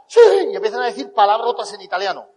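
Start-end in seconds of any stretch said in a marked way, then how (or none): 0.1-0.2 sí chillado de celebración; grito imitado. Retold or imitated. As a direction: imita a un grupo gritando eufórico. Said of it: "empiezan a gritar". (grito de júbilo imitado)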